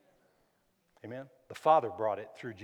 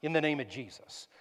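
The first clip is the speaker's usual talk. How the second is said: sudden loud rebuke, high and forceful; firm shout; 4 semitones higher, 19 dB louder than usual. Shown as a demonstration. Preacher rebuking a bad thought, shouting. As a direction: shout the thought down in Jesus' name. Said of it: "I'll even say sometimes".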